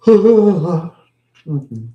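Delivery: long loud yawning hum. Real, not acted. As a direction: yawn it out loud. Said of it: "I'm just yawning a little bit".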